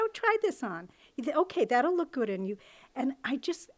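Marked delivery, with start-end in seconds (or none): 0.0-2.6 cheerful mother. Retold or imitated. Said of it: "she said".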